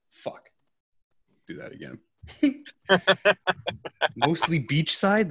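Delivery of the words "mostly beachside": puzzled reading. Real, not acted. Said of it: "That's not what I wrote".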